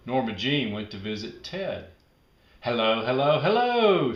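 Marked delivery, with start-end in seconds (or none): 2.6-4.1 high, loud sing-song hello; shouted greeting. Acted. Norma Jean calling to Ted, high and loud. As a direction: call it out across the yard. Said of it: "she shouted to Ted".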